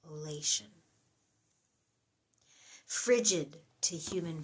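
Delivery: measured poem reading with pauses between phrases; psalm reading. Acted. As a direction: read it as a reflective psalm, phrase by phrase.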